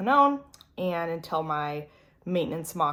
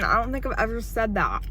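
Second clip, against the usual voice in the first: choked up; 7 semitones higher, 5 dB louder than usual. Real, not acted. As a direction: voice catching with emotion. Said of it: "I almost, like, got, like, choked up".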